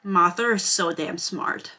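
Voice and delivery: sarcastic reading. Retold or imitated. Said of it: "the next line after this is".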